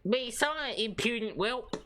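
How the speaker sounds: commanding judge. Acted. Acted judge line in game.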